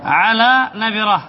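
slow answer for the class. Shown as a demonstration. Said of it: "الهمزة بعدها على ماذا تكتب؟".

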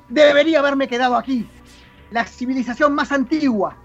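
dramatic reading of the Doctor's tirade; the Sixth Doctor. Acted. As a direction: declaim an outraged speech against a corrupt civilisation. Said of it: "Buena interpretación".

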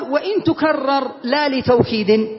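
slow recital of the verse line. Shown as a demonstration. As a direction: chant it slowly for the students. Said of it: "قال". (إنشاد بطيء لبيت الألفية)

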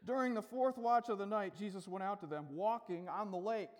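understated, matter-of-fact Bible reading. Shown as a demonstration. Preacher reads the lake account to the congregation, matter-of-fact. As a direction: read it as a simple fact. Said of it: "Very matter of fact".

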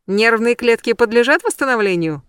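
high and loud, bubbling with excitement; delighted squeal. A narrator's reading. Excited friend teases the heroine after the séance, squealing. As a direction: ask it in thrilled delight. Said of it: "завизжала она от восторга".

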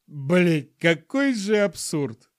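squeezed out through laughter. A narrator's reading. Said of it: "выдавил он".

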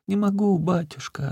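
put-on very high, thin old crone voice; old woman's lament. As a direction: whimper it up high like the old beggar. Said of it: "отвечала старуха".

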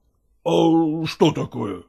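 usual speaking voice

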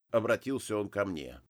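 ordinary delivery, nothing marked

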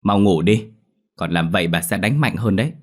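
put-on a fed-up grandma threatening the child; stern grandmother scolding at bedtime; annoyed grandmother. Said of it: "Bà tức mình nói".

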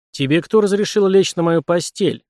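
angry. Acted. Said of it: "Я гневно сжал кулаки".

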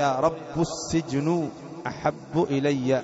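slow recited "رب" as rabbu; damma on ba. Shown as a demonstration. Teacher cites a variant reading, slow "رب" as rabbu. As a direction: read slowly, "رب" ending in u. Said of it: "بضم الباء".

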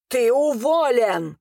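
slow, high, furious cry; sudden yell. A narrator's reading. Arvin suddenly fires his cousin, yelling. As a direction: burst out yelling, stretching both words. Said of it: "вдруг завопил Арвин".

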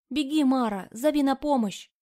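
loud, high cry for help; desperate shout. Acted. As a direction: scream at her to run. Girl screams for help in fight.

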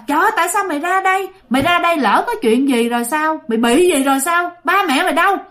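mock telling-off, quick to start; lightly acted scolding, pitch jumping on the questions; retold scolding. Stranger asking why the child came out here, mildly scolding. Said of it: "cái người này chửi ông nội".

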